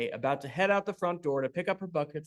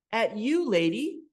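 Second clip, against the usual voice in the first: bucket accuses; 6 semitones higher, 4 dB louder, slower than usual. A narrator's reading.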